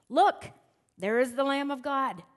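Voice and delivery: loud rising call on "Look"; plain proclamation. Shown as a demonstration. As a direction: announce "Look, there is the Lamb of God" with a lifted "Look". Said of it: "I think he said it more like this".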